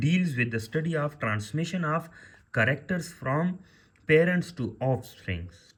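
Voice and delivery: definitions read out slowly for note-taking; teacher dictating the definition word by word; slow dictation. Shown as a demonstration. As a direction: spell out each phrase slowly for students. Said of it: "dictating definition".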